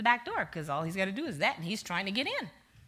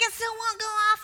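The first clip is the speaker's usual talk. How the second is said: panicked husband; 13 semitones higher, 6 dB louder than usual. Retold or imitated. Husband panics, gun fails again.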